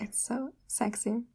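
soft whisper. Real, not acted. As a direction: whisper it close. Whispering joke.

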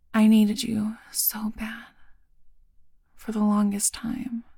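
tender whisper. Acted.

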